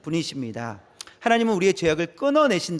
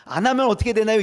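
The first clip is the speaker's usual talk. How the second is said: a louder cocky pupil pressing the question; cheeky student, louder; 4 semitones higher, 5 dB louder, faster than usual. Retold or imitated. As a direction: push the question cheekily and loud. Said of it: "이렇게 얘기해요". (더 크게 따지듯 묻는 학생)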